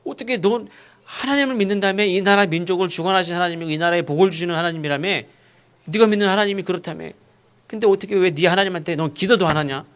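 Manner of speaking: mildly heated acted reproach; reproachful, insistent questioning; rebuking. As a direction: press the accusation home. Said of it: "사회로부터 책망을 받아요".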